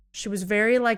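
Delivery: plain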